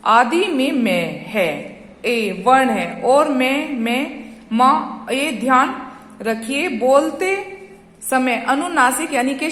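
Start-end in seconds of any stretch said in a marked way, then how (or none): 3.0-5.1 मैं and माँ said with clear nasal vowel; nasal demo. Shown as a demonstration. Teacher shows pupils how मैं and माँ sound, nasal demo. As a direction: let मैं and माँ ring through the nose. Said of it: "जैसे मैं".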